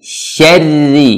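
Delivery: SYARRI with a thin, drawn-out R, slowly; thin, stretched r. Shown as a demonstration. Quran teacher showing the letter to learners, thin stretched SYARRI. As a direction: draw straight into a thin "Syarri". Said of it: "Langsung tarik tipis".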